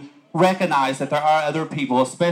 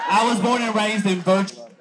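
higher, laughing through the line; laughing retake; 7 semitones higher than usual. Real, not acted. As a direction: give it another go, still laughing. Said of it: "Let's try that one more time".

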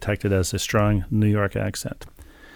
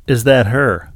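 louder quoted question from a curious shopper; lightly voiced lady asking, louder; imitating a stranger; 2 semitones higher, 6 dB louder, slower than usual. Lady asks husband about his wife, imitated, louder. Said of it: "lady came up to me and said".

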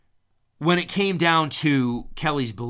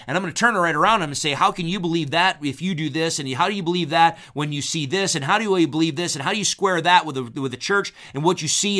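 firing back questions; 4 semitones higher, faster than usual. Retold or imitated. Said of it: "She's like".

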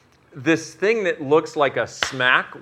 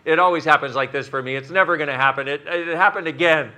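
builds from a put-upon whine to a loud high rant; mock meltdown growing louder and higher; whiny humanoid freakout; 4 semitones higher, 7 dB louder than usual. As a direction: spiral from complaining into outraged yelling. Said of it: "the humanoid in you goes".

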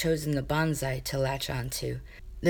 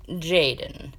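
reasonable; 4 dB louder than usual. Acted. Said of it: "Kane said reasonably".

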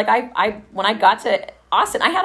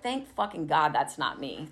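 muttered relief; 4 semitones lower, 10 dB quieter than usual. Retold or imitated. Relieved aside about drunk coworkers.

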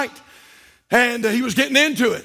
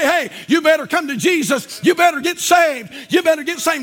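rooftop shout; 2 semitones higher than usual. Retold or imitated. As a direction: shout the warning from the housetop. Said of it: "I'd shout it from the house".

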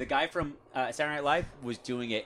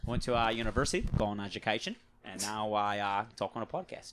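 put-on Aussie accent; casual, hammed-up Aussie; fake Australian accent. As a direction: talk like a mock Australian. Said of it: "Talking about my fake Australian accent".

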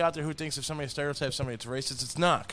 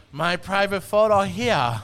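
slow, raised-pitch mock Asian accent; 5 semitones higher, 7 dB louder, slower than usual. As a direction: drag it out in a caricatured Asian accent. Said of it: "doing the Asian accent".

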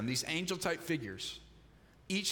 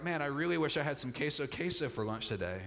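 a stronger hankering, quickly said; keener wish. Acted. Preacher acting someone who really wants lunch, keener wish. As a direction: wish for it more keenly, falling away at the end. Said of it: "if you really wanted it".

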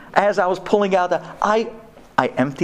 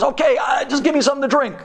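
imitating wife; 10 semitones higher, faster than usual. Wife pleading for drink.

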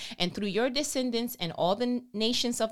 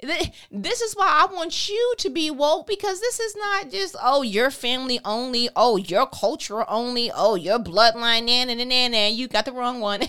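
much higher and louder, scolding; loud high mock-sassy lecture; sassy Holy Spirit; 4 semitones higher, 8 dB louder than usual. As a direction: wag a finger in a high sassy voice. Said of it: "He was like".

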